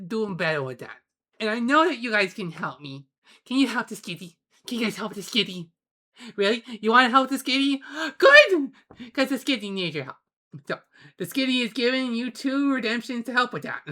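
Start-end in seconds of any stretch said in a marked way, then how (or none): 3.4-13.2 put-on high, fast sing-song baby talk; cutesy baby talk. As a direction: coo at chat like a baby. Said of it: "in a very ooh-woo cutesy voice".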